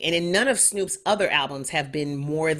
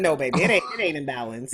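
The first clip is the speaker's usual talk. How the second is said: auntie voice; 3 semitones lower, faster than usual. Acted. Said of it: "I hate to put my auntie voice on it".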